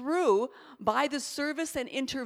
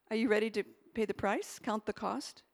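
low, grave voice of God; scary voice of God; 3 semitones lower, 4 dB quieter than usual. Retold or imitated. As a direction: say it low and solemn, like the Lord. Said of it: "that was the scary voice".

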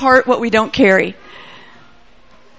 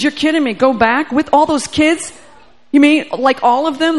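incredulous; 4 semitones higher than usual. Retold or imitated. Man hears he must go back.

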